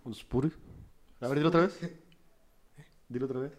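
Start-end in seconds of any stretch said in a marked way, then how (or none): 0.1-0.6 "Spotify" clipped to "espuri", as a question; imitating mispronunciation. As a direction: mockingly echo "Spotify" as "espuri". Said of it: "hace ratito lo dije". (imitando "Spotify" mal dicho, como "espuri")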